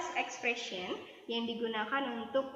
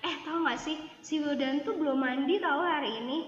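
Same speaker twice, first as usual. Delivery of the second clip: lively mock gossip, pitched up; acted gossiping; 3 semitones higher, 3 dB louder than usual. Teacher telling students a sample story, playful gossip. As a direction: share a silly secret eagerly. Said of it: "saya lagi cerita nih".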